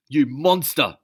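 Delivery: loud, high angry yell; shouting in rage at his enemy; furious shout. Acted. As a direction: scream the accusation. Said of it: "he shouted".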